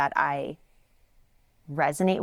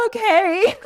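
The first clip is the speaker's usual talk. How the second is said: meek okay; 9 dB louder than usual. Retold or imitated. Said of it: "And I was like".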